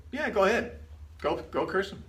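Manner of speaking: mock wrong version. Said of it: "No, he actually said".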